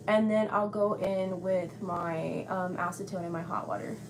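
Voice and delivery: muffled behind a mask; talking through a mask; through a face mask. Real, not acted. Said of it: "I have my mask on".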